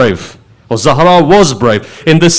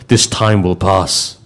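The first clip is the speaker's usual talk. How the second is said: slow soft line; 10 semitones lower, 7 dB quieter, slower than usual. Acted. Ali comforts the crying companions.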